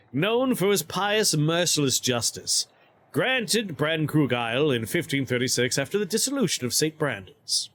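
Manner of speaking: measured, formal narrator's reading; inscription reading. Acted. Streamer reads a baron's inscription aloud, inscription reading. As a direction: read out a noble's titles with ceremony.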